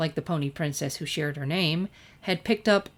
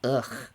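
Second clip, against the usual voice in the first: disgusted groan; 5 semitones lower than usual. A narrator's reading. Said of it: "The lettuce turned sour".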